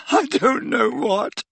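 slow, high, tearful helplessness; sobbing. A narrator's reading. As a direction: draw it out through acted sobs. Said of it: "sobbed Leanne".

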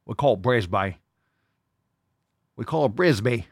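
mock Australian accent, Brisbane said "Brizbye". Host mimics an Australian viewer in a mock Aussie accent. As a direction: tease in a hammed-up Aussie accent. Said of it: "it's from Australia, so it might be like".

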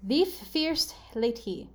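slow, word-by-word clue; deliberate puzzle repetition; slow readout. Shown as a demonstration. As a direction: draw out each word for the guesser. Repeating gibberish clue for guesser.

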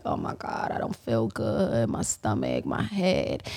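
low, creaky mock moan of feeling ill; retold sick groaning. Retelling being sick in the car, low queasy grumble. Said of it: "I was so sick that day".

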